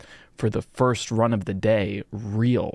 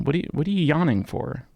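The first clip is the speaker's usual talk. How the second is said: mock scold; 4 semitones higher than usual. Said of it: "I'm sorry I yelled at you".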